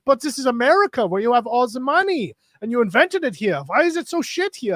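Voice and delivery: a baffled German visitor demanding answers; German guy outraged. Retold or imitated. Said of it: "And he's like".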